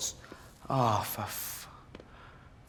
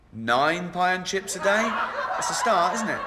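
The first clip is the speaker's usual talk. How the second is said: higher, upbeat fake encouragement; chirpy doctor, higher than usual; mock encouraging doctor; 5 semitones higher than usual. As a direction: sell it like good news. Mock doctor suggesting nine pies.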